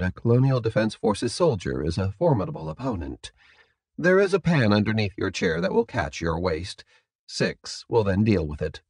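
softly voiced, polite captor; a quiet hint of the formal captor; composed captor. Captor refusing to unbind the prisoner, mildly soft and polite.

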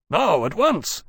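quick, pressing command; urgent. Acted. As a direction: urge them on now. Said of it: "Lawrence said urgently".

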